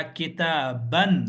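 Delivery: किताबन said slowly with a final -an ending, two zabar; wrong ending shown. Shown as a demonstration. Teacher showing students the wrong ending, slow and deliberate. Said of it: "ये नहीं पढ़ना है".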